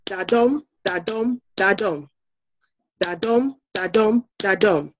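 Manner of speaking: "Da-dum" as a steady heartbeat, weak DA then stressed DUM; heartbeat rhythm. Shown as a demonstration. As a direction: beat out "Da-dum" in threes, pausing after each, stepping down to the last. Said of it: "sounds like a heartbeat, and it goes like this".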